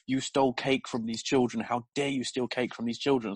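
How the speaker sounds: retold scolding in an Italian accent; broken-English Italian accent. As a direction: lightly imitate an Italian speaker's broken English. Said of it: "very broken English and Italian accent".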